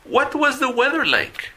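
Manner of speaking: high, loud model line; teacher asks the class to repeat; model phrase for repeating. Shown as a demonstration. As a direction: pitch it up so students echo it. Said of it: "Repitan, por favor".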